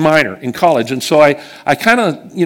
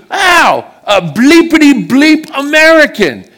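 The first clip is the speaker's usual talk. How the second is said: put-on high, loud drunken English jeer; hammed-up drunk Brit cursing an American; drunk Englishman; 11 semitones higher, 4 dB louder than usual. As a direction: sneer it like a rowdy drunk in a London park. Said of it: "And he goes".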